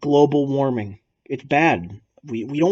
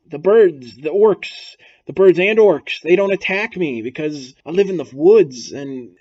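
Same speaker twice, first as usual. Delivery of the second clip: lightly voiced Galadriel; 3 semitones higher, 4 dB louder than usual. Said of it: "And then she's like".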